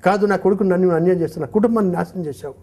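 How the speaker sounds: angry accusation. Acted. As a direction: hurl the blame at him quickly. Convict accuses the commissioner.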